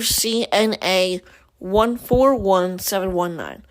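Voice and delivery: slow, measured web address read-out; dictating slowly. Real, not acted. Podcaster giving listeners a web address to follow along, dictating slowly. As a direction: spell it out piece by piece.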